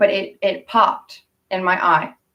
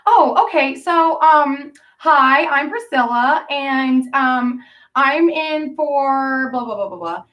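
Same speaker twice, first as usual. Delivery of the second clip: light imitation of Priscilla; 5 semitones higher, slower than usual. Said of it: "And she goes".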